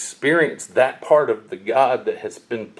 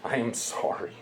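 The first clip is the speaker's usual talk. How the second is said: sincere apology; 9 dB quieter than usual. Retold or imitated. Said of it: "you can hear it in her voice".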